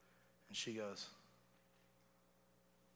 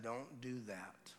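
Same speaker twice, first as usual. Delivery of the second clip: dad's warning tone; 7 dB quieter, much slower than usual. Retold or imitated. Father's tone to his baby daughter, quiet and firm. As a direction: say it softly and slowly, meaning it. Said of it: "Dad in his tone said".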